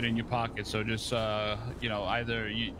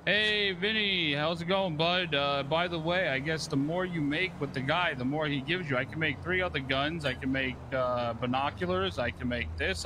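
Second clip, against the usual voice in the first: imitating Eugene; 2 semitones higher, slower than usual. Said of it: "Eugene just called me".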